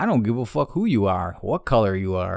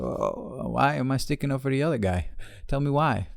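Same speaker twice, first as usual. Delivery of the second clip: higher-pitched mock innocent question; challenging comeback; 4 semitones higher, 3 dB quieter than usual. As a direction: play dumb and press for an answer. Retorting to the accuser.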